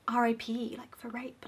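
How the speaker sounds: real whisper. Real, not acted. Reviewer tells viewers what the allegory is for, whispering. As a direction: whisper it like a censored word. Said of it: "I don't know why I'm whispering it".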